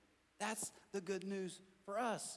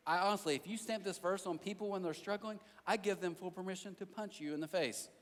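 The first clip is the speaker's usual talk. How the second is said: normal talking voice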